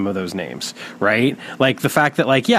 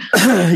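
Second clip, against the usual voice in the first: high throat clear, still choking; 9 semitones higher, 4 dB louder than usual. Real, not acted. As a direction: clear the throat again, bug stuck. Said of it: "I think I just swallowed a bug".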